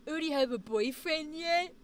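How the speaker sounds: nosy family member's cooing mock voice; teasing relatives. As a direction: tease like a prying relative, put-on voice. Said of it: "classic family thing where they go".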